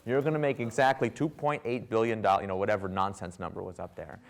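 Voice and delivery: retold challenge with pitch and volume up; incredulous challenge. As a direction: put the room on the spot, disbelieving. Challenging the room over forecast.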